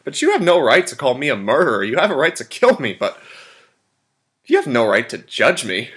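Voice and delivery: emphatic, rising indignation with swinging pitch; indignant. Acted. Colonel defending himself to his judge, indignant. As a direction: push back hard against being judged.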